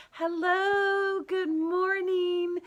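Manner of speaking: high, loud, drawn-out hello; sing-out greeting, pitched well up and stretched; bright greeting. Real, not acted. Livestream host hails viewers joining, high cheery greeting.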